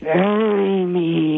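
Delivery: slow, drawn-out ghostly plea; scary voice. Retold or imitated. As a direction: moan it slowly like a ghost. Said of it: "and he says".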